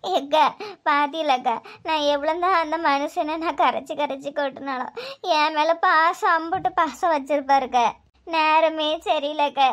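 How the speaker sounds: low, grieving wife's lament; tearful lament. Acted. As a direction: lament his bad luck through tears, pitched low. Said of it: "அழுவாதட்டி". (அழுகையோடு புலம்பல்)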